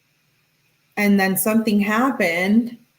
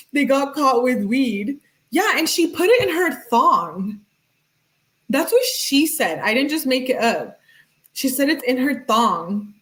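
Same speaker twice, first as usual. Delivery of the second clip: higher voice, barely holding in laughter; laughing disbelief; 3 semitones higher than usual. Real, not acted. Insisting to viewers, high and laughing. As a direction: explain it while cracking up. Still laughing about the texts.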